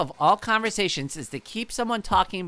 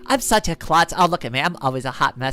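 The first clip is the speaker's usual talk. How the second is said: cheery klutz act. Pretend. Brushing off a spill on live stream, playful klutz. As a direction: laugh off the spill as a ditzy klutz. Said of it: "Just be like".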